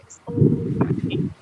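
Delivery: high, slow and breezy mock Becky; dismissive coworker. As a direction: toss it off like nothing matters. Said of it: "she'd be like".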